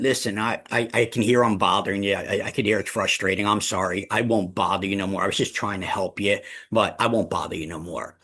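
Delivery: mock hurt apology to a client; guilt trip. Shown as a demonstration. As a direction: lay on the guilt, wounded and sorry. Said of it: "That works like a charm".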